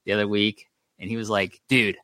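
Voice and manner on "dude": ordinary delivery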